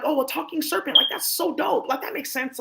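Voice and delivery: retold amazement at a talking serpent; delighted surprise. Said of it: "'Cause I thought, like".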